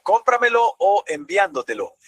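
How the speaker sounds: cómpramelo and enviándotelo stressed early, on CÓM and ÁN; early word stress. Shown as a demonstration. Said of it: "el acento está al principio". (cómpramelo y enviándotelo con el acento bien atrás)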